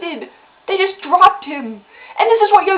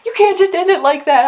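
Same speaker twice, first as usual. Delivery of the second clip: louder mock yell at the TV; retold screaming; 4 semitones higher, 6 dB louder than usual. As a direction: re-enact an outraged protest, half-shouted. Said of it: "I was screaming at my T V".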